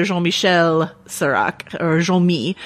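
badly faked French accent on the names; terrible French accent. Host introducing the brother, terrible French accent. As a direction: give the names an amateur French lilt. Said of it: "my terrible French accent".

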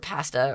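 pasta with short A as in "cat"; Canadian pronunciation. Shown as a demonstration. Interviewee made to say pasta, Canadian pronunciation. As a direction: say "pasta" as PASS-ta. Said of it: "laughing at how they say".

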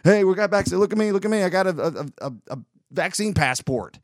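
a hint of giddy Wayne showing off; lightly voiced excited fan backstage; Wayne's World bragging. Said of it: "I'll be Wayne's World".

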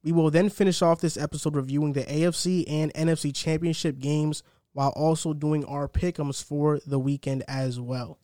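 measured, emphatic host announcement; podcast intro read. Acted. Host welcomes listeners and lays out the episode, announcer-style intro. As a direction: punch each topic like a show rundown.

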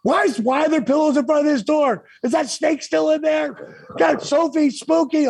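high, frantic retelling of her panic; mock panicked scream. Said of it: "Kimberly screaming".

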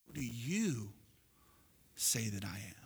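quiet, weighty question with a pause; hushed question. Retold or imitated. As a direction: ask it intimately, almost whispered at the end. Jesus's question, dropped very low.

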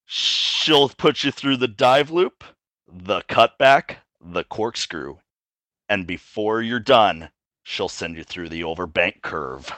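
sultry voice. Acted. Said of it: "In your sultriest voice".

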